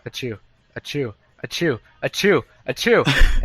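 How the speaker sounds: building mock sneeze. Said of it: "She goes, she builds up".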